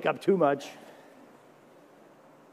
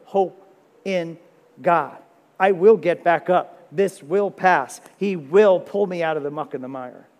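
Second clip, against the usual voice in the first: defiant resolve; 5 dB louder than usual. Acted. Psalmist rallying his soul.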